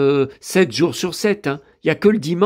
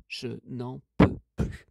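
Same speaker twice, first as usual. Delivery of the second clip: drained repeat; 4 semitones lower, 7 dB quieter than usual. Real, not acted. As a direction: let it fade out wearily, word by word. Répète sa plainte en s'éteignant. (à bout, lentement, d'une voix qui s'éteint)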